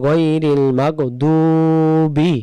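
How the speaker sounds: মাগদুবি with দ held for one আলিফ; careful recitation. Shown as a demonstration. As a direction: say গয়রিল মাগদুবি slowly. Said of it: "আমরা বলবো". (এক আলিফ টেনে বলা)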